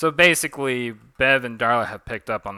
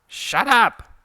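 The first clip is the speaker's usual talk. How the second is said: high, loud outburst; acted exasperated shout; angry shout; 14 semitones higher, 11 dB louder than usual. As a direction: cut them off with a sharp yell. Character cuts off the speech.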